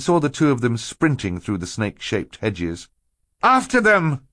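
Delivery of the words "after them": high, loud rallying cry; boy's shout. A narrator's reading. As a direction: shout to start the chase. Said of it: "Klaus shouted".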